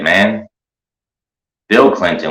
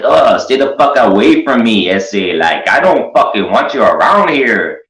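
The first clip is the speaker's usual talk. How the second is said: raised, loud, disgusted rant; mock angry; 4 semitones higher, 3 dB louder than usual. Telling the weird guy off to protect his homeboys. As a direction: chase the creep off with a hammed-up rant.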